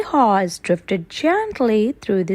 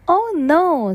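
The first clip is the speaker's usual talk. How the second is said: surprised; 7 semitones higher than usual. Acted. Dismayed exclamation, high.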